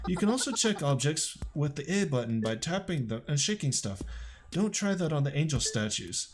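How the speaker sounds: a hint of a British professor's tour-guide patter; lightly posh British museum guide; British accent. Professor shows Luigi the empty gallery, in a British accent. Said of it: "Egad is British".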